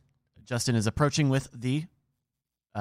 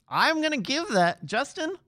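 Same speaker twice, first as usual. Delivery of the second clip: suspenseful; 12 semitones higher than usual. Acted. Building suspense for ruling.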